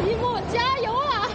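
high, spirited cheer to a friend. Real, not acted. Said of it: "我在后面为你打气".

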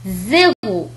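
"زيرو" opening on a buzzing z; Z sound. Shown as a demonstration. Teacher showing the last letter, buzzing z in "زيرو". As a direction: say "زيرو" with voiced z and French r. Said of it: "وينطق كالتالي".

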